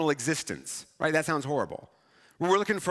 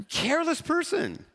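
mock scolding jab; 10 semitones higher than usual. Younger self's parting jab.

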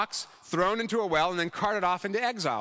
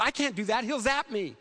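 worried protest; 5 semitones higher than usual. Retold or imitated. Student's worried reply acted out.

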